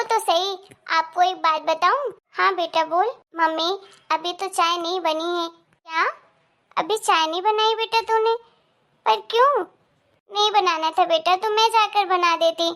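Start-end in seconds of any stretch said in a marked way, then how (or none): 5.5-9.6 surprised mother. Acted. Mother shocked tea not made.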